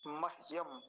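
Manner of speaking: मह्यम as mah-yam, h without a vowel; just a breath of h in मह्यम; half h. Shown as a demonstration. Teacher introducing a strange-looking word, half h. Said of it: "पहला शब्द देखिए".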